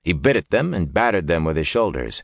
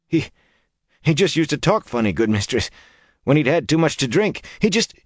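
higher, halting peasant voice; grieving villager; 10 semitones higher than usual. Acted. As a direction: falter it out, pitched up.

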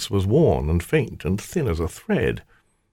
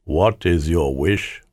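slow, solemn otherworldly spirit; spirit of the ring; 3 semitones lower, slower than usual. A narrator's reading. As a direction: speak slowly as an ancient servant spirit.

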